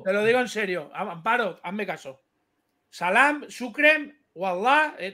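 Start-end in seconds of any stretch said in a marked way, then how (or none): 2.9-4.9 higher, playful mock Moroccan Arabic; mock Moroccan greetings. Urging Amparo to answer Diego, mock Moroccan Arabic. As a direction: toss out Moroccan words like a joke video. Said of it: "hablando en marroquí".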